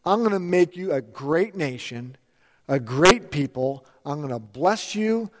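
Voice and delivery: God's promise. Retold or imitated. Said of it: "he says".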